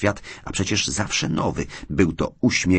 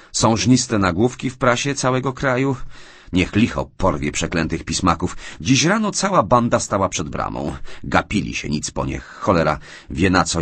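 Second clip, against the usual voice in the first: higher, louder, rattled rant; a worried man venting to a friend; agitated John; 3 semitones higher, 3 dB louder than usual. Acted. John vents to Hastings about the press, agitated.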